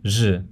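R as a buzzing zh sound; asibilada R. Shown as a demonstration. Teacher demonstrates the Latin American R, assibilated. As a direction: make a voiced zh for the R. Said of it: "It sounds like this".

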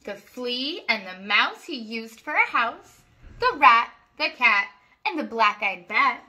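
sing-song rhyming read-aloud; reading to children. A narrator's reading. Reading a rhyming farm book to children, sing-song. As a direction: lilt each rhyme for little listeners. Story narration, soft ending.

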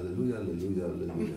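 low, soft, listless Alleluja; dutiful, subdued church response; half-hearted congregation. Acted. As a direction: mumble it without any enthusiasm. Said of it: "U nas jest tylko".

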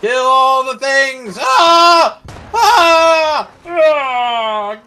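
roaring tyrant king. Pretend. Battle cry slaughtering wolves.

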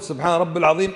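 سبحان رب العظيم with رب joined straight to العظيم, no ya; rabb-il-azim, the ya swallowed in رب; wrong pronunciation. Shown as a demonstration. Teacher shows students the mistake in the prayer, mispronounced demonstration. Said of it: "أخطأت".

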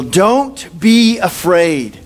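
very slow, drawn-out reassurance; angel comforting. Retold or imitated. Angel reassures Joseph, slow and drawn out. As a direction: stretch each word gently like a calming angel. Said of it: "And then angel".

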